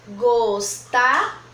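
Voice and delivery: "gostar" as slow gos, ta, held before va; split into syllables. Shown as a demonstration. Teacher showing another way to separate gostava, "gostar" as drawn-out gos, ta. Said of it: "para separar a palavra gostava".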